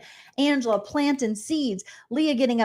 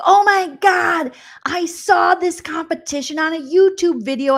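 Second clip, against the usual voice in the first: much higher and louder, slow start; gushing superfan; 7 semitones higher, 4 dB louder than usual. Retold or imitated. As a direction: rave like a starstruck fan. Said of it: "They're like".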